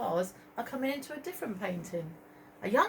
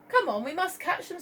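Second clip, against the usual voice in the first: urgent Marie; 9 semitones higher than usual. Acted. Marie urges.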